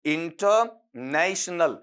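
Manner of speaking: इंटरनेशनल very slowly, broken after इंटर; stretched-out इंटरनेशनल for repeating together; say-along demo. Shown as a demonstration. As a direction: lead learners through इंटरनेशनल in long chunks. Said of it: "एक बार फिर बोलिएगा मेरे साथ में".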